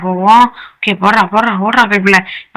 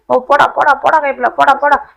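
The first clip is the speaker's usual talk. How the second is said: excited; 6 semitones higher than usual. Real, not acted. Nearing the finish.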